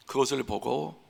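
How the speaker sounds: normal talking voice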